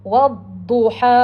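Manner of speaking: "wadduha" drawn out slowly, long final a; counter-example recitation. Shown as a demonstration. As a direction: slowly model "wadduha" as a faulty reading. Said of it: "Kita tak baca".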